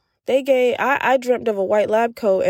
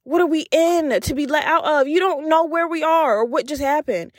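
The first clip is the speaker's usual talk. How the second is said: high, disbelieving questions; exasperated, don't you see it; incredulous; 5 semitones higher than usual. Retold or imitated. Retorting to the macho dude.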